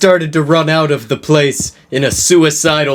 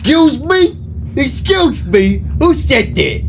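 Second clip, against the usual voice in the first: yelling; 12 semitones higher than usual. Acted. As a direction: bark it out, offended. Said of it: "yelled Mister Norris".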